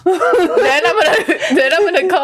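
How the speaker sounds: laughing through the words; giggling, barely holding it. Real, not acted. Laughing mid-sentence.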